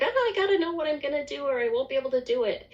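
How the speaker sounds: fast, high rush of inner panic; mock panic. Retelling her own inner panic, fast and high-pitched. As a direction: rattle it off like a frantic inner voice. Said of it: "I freak out inside".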